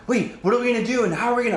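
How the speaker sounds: imitated uncertain crewmates; anxious questioning. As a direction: pester the leader with worried questions. Confused players asking questions.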